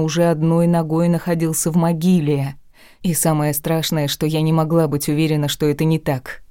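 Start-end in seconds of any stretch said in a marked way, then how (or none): none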